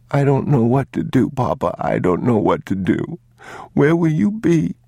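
put-on high, pleading child's voice; rising childlike panic; panicked boy. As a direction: plead like a frightened little boy.

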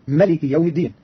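ملك said malik with no long alif; Qalun's short ملك, not مالك. Shown as a demonstration. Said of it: "بحذف الألف".

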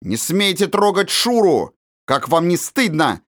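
put-on a boy shielding his friend in outrage; indignant boy shouting; angry shout. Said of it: "крикнул вне себя от гнева мальчик".

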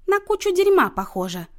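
high, loud and joyful; gleeful announcement. A narrator's reading. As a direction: proclaim it with great relish. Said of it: "радостно возвестила Люся". (радостно, во всеуслышание)

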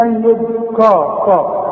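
يذكر with the kaf thickened like قا; mock the student saying قا for the kaf; heavy qaf-like kaf. Teacher mimics the student's wrong heavy kaf. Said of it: "قلت لي".

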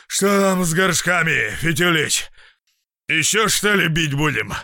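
loud, high, jeering; mocking host. A narrator's reading. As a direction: tease him boisterously. Khvostov mocking, out of breath.

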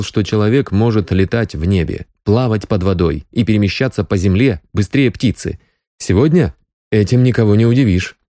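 ordinary delivery, nothing marked

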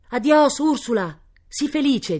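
high, drawn-out goodbye call; called farewell. Acted. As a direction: call after someone being carried away. Farewell called as she is carried off. (addio gridato da lontano)

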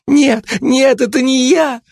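high frantic denial; panicked denial. Acted. Кулебяка вырывается и в панике отрицает, очень высоко. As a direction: cry out as you scramble away. Suspect flees screaming.

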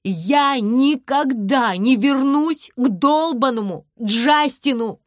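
loud, slow, relishing yell; shouting it with delight. A narrator's reading. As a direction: savour every word, shouting. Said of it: "повторяю".

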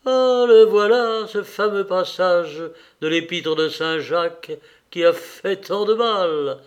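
a loud opening cry that eases off; exclaiming. Acted. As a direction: cry out as if catching the old argument. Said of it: "s'écria Karénine".

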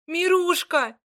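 high, loud anguished cry. A narrator's reading. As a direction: cry out over the fallen. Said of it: "воскликнула Марья".

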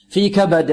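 strong bouncing د ending في كبد; قلقلة الدال. Shown as a demonstration. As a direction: release the د of كبد with an echo. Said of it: "قلقلة في الدال". (قلقلة دال في كبد)

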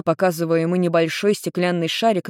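plain reading voice

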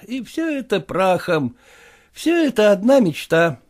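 высокий голос жалобного молодого просителя; жалуется генералу на тяжёлую жизнь; голос Куцина. Acted. Kutsin voiced. (молодой проситель Куцин жалуется генералу, голос выше)

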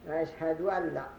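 أشهد ولا with the waw stressed; waw after ashhad. Shown as a demonstration. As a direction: lean on the added waw in ولا. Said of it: "ويقلب ضمتها واوا".

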